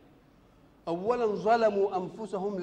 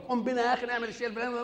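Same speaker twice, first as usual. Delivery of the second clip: quick, higher, offhand buddy talk; casual chat with a friend; 6 semitones higher, 4 dB louder, faster than usual. Retold or imitated. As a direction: toss it off like chatting to a pal. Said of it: "مش مثلًا زي ما بيتكلم صاحبك". (كلام عادي سريع مع صاحب)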